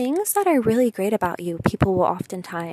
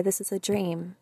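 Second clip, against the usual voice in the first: whisper; 3 semitones lower, 8 dB quieter than usual. Real, not acted. Unvoiced aside.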